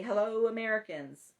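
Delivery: hint of a radio newsman's greeting; Paul Harvey. Host imitating a newsman for his fans, lightly voiced radio greeting. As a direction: lightly imitate a broadcaster hailing the nation. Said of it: "you can still hear him say".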